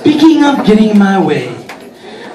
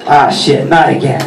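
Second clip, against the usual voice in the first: tag weary dread; 6 semitones lower than usual. Acted. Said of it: "I'm like".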